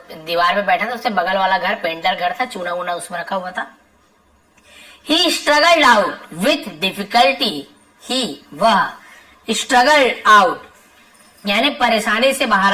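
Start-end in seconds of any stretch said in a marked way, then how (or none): 5.1-7.6 slow dictation. Shown as a demonstration. Teacher reading the lesson sentence to students, slow and deliberate. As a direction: read it out slowly so the class can follow.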